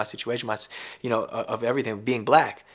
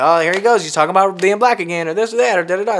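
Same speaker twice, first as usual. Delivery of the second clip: mocking complainer; 6 semitones higher, 8 dB louder than usual. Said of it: "motherfuckers be like".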